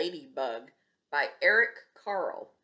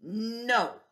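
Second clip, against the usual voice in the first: screamed; much slower than usual. Acted. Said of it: "screamed the grouchy ladybug".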